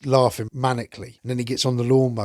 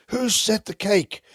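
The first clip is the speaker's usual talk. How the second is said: much higher, slow drawn-out question; startled Gonzo; 10 semitones higher than usual. Retold or imitated. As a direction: stretch it out high like a cartoon puppet. Gonzo pops up asking.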